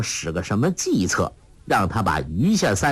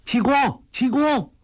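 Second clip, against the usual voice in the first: calling out loud; 12 semitones higher than usual. A narrator's reading. Guo Jing calling after Hong Qigong in the pine woods, loud shout. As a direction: shout the name high and loud across the woods. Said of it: "大叫道".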